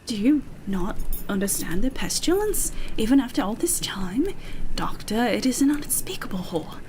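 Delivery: lightly put-on English accent; oh four nine. Interviewed doctor explains his methods to Doctor Ham, English accent. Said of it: "I'll try to do both again".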